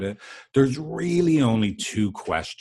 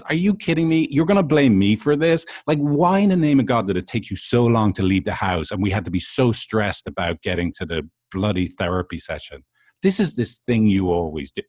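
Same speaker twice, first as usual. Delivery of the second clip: angry retort; 2 semitones higher than usual. Retold or imitated. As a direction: fire back at a blaming partner, fast and heated. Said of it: "your partner that just hears this and goes".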